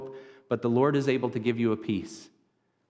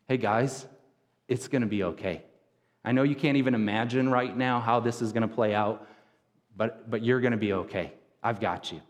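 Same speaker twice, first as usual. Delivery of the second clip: gentle reassurance. Retold or imitated. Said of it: "So he speaks these gentle words over them".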